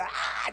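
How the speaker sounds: brief demo holler, held back; preaching scream. Shown as a demonstration. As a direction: let out a short preacher's "ah". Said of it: "just scream and holler".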